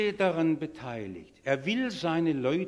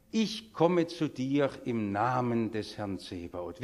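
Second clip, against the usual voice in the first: slow, lower, modest avowal; humble declaration; 3 semitones lower, slower than usual. Retold or imitated. David answering Goliath in the Lord's name, humbly. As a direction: say it humbly and steadily, taking your time. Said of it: "ganz bescheiden".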